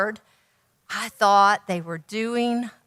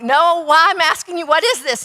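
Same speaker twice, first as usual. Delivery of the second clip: baffled; 6 semitones higher, 4 dB louder than usual. Retold or imitated. Pressing the young man.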